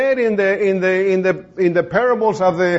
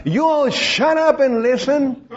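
retold mock scream; 6 semitones higher than usual. Mother orders her rowdy boys to listen, retold mock scream. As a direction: imitate a yelling mother at a higher pitch. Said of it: "The lady's screaming".

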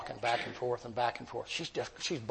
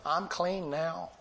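pitched higher, drawn out slowly on "clean"; slow, tender testimony; 5 semitones higher, much slower than usual. Retold or imitated. Inmate tells the preacher her news, slow and tender. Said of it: "you know what she said to me?".

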